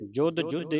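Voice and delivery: ਜੁਧ ਜੁਧੇ said tight, with firm consonants; tight, compact ਜੁਧ ਜੁਧੇ; tightly pressed. Shown as a demonstration. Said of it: "ਇਸ ਤਰ੍ਹਾਂ ਪੜ੍ਹਨਾ ਹੈ ਕੱਸ ਕੇ".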